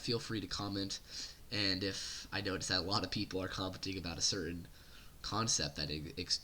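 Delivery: talking through a cold; under-the-weather voice; sick voice. Real, not acted. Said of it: "my sick voice today".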